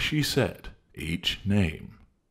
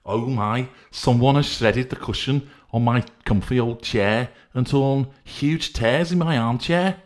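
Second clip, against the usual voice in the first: crying out; 7 semitones higher, 6 dB louder than usual. Acted. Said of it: "cried Decency".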